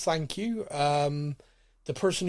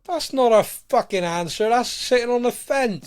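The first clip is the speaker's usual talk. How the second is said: louder, half-joking indignant protest; mock outrage; 6 semitones higher, 9 dB louder than usual. Real, not acted. Host scolds his co-host for sitting on the fence, mock anger. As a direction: call him out for dodging, playfully heated. Host mocks a non-answer.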